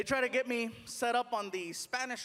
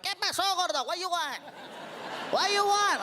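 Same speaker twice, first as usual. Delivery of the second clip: put-on high, gruff Mexican accent; rude taco guy; 8 semitones higher than usual. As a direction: bark it like a rude cashier. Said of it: "And the guy was like".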